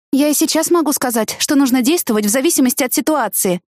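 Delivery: high, teasing answer; mocking reply. A narrator's reading. Teasing Danny about his temper, mocking tone. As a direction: toss it back with a smirk. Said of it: "насмешливо ответила я".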